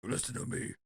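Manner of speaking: urgent, husky insistence; hammy tough-guy impression; Al Pacino. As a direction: plead for attention like a movie mobster. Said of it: "We can get Al in here".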